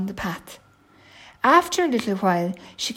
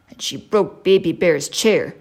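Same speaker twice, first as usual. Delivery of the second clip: loud, mildly cross daddy bear; 7 dB louder than usual. Acted. Daddy bear complains of the last visitor, mildly cross. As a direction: complain loudly with a touch of crossness. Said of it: "said Daddy Bear crossly".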